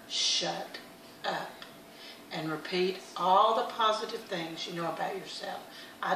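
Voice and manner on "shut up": "Shut" and "up" set apart by a pause; firm command. Shown as a demonstration. Telling the little voice in your head off, firm. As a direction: separate "Shut" from "up", firmly and without shouting. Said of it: "you have to tell that little voice".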